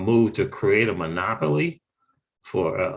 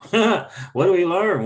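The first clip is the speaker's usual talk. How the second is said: higher and slower, with a laugh; slow laughing repeat; 9 semitones higher, 3 dB louder, slower than usual. Retold or imitated. Repeating his own question to viewers, laughing slowly. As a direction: lean into the question with a chuckle. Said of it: "Let's, what do we learn?".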